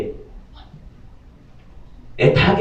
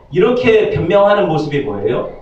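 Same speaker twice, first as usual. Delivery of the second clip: ordinary delivery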